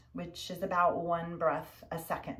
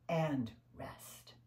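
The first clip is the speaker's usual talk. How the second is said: whisper; 5 dB quieter than usual. Real, not acted. Ending the breathing rounds.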